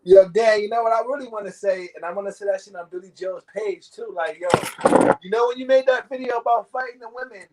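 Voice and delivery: distant, like through a wall; sounding far away. Real, not acted. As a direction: voice muffled and far off. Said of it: "You sound so far away".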